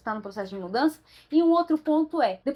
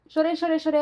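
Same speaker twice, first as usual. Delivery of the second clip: laughing; 4 semitones higher, 3 dB louder than usual. Real, not acted. Laughs retelling her crying.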